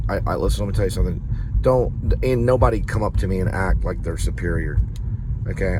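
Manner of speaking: a touch of a heated scold, punching Don't; mild mock yell. Warning the actor not to act superior, mild mock anger. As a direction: snap the first word, then keep lecturing. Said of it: "I don't mean to be an asshole and yell at you".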